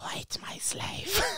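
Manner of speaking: whispered, hushed, hissing snake voice. Showing the others what a snake-like voice sounds like, in a snake-like voice. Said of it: "a snake-like voice is like".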